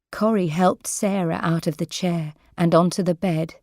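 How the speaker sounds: usual speaking voice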